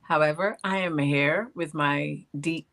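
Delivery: normal talking voice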